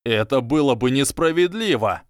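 loud, voice cracking protest; voice breaking. Acted. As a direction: plead with a breaking voice. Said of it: "Его голос срывался". (срывающийся голос, громко)

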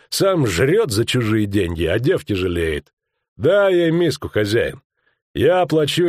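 swaggering ruffian, emphatic pitch swings; rough boss throwing his weight around; bullying ruffian. Acted. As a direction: jeer and lay down the law to the table.

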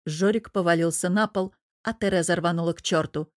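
plain reading voice

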